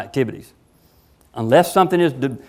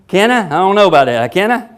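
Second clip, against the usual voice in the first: mock-doubtful Can I, pitched higher with a light laugh; doubtful question; 4 semitones higher, 3 dB louder than usual. Speaker mocks the slogan's timid wording, a touch amused. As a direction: ask it like you're unsure you can. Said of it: "That sounds like a question".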